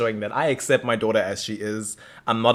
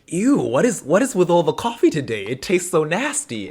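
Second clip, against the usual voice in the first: higher-pitched mock disgust; acted disgust; 5 semitones higher than usual. Tyler complaining about his second coffee, mildly disgusted. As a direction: recoil from a bad taste, pitched up.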